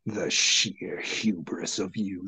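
slow, low, hissing crone voice; angry snap. A narrator's reading. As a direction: spit it out with slow contempt. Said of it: "the first crone angrily snapped".

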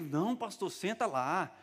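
high, drawn-out friendly protest; high-pitched polite insistence; insistent protest. Retold or imitated. Church member urging pastor to sit.

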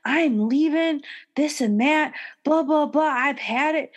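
mock storming off; mocking quote of Mary. The speaker mimicking Mary walking out, huffy. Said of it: "he said something along the lines of".

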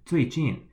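最近 pitched high, each syllable falling; double fourth tone. Shown as a demonstration. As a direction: model 最近 with two falling tones. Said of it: "in the fourth tone".

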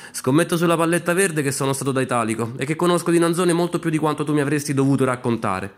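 slightly heightened challenge from a gambler; challenging bettor. Acted. Hans bets against his aunt.

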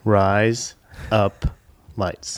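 each word separate, low voice. Shown as a demonstration. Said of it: "Now say it together quickly".

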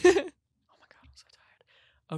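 slow whispered sigh; tired whisper. Real, not acted. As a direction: whisper it, worn out. Exhausted, says so tired.

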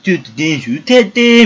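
mock nagging mother-in-law. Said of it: "姑かっていうぐらいの顔で".

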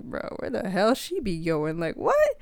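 incredulous, voice jumping up on what; mock disbelief at the running girl; baffled.

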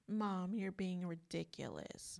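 put-on whispered, slow kid brush-off. Children telling mom she's ridiculous, whispered. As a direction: breathe it out as a dismissive whisper.

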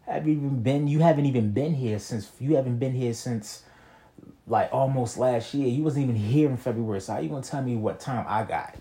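calling out the supervisor for never being there; heated retort. Retold or imitated. Arguing with supervisor over vacation.

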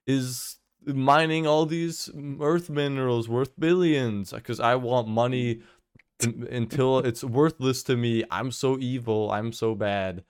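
hammed-up evil villain gloating; sneering panto villain. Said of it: "she's like".

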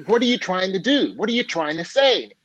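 high-pitched exasperated questions; mock gasping desperation. Young man to the man holding him under, mock gasping desperation. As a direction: act out a frantic, half-drowned demand. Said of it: "the guy's gasping for breath".

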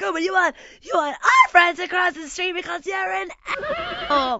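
high, loud sarcastic comeback; snippy retort. Retold or imitated. Arguing with the neighbor, loud sarcastic jab. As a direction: snap back at him. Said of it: "I'm like".

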